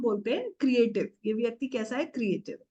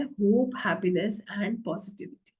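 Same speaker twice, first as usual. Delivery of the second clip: slow emphatic list; 2 semitones lower than usual. Shown as a demonstration. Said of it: "पीला रंग क्या बताता है?".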